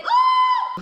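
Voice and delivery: very high, loud teasing ooh; crowd ooh. Retold or imitated. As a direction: tease like a whole crowd. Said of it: "they were like".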